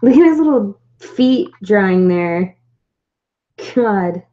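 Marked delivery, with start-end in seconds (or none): 0.0-2.6 slow, loud cooing; overwhelmed by cuteness. Real, not acted. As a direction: gush over its tiny feet. Cooing at tiny figure.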